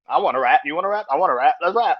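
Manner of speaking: high, loud mock-hype back and forth; hyped rappers. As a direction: play two stars egging each other on. Acting two rappers teaming up.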